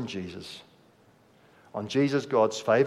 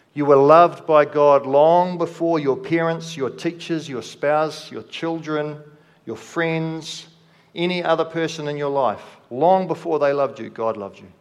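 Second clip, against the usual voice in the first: emphatic preaching; 4 dB louder than usual. Real, not acted. Preacher presses the point.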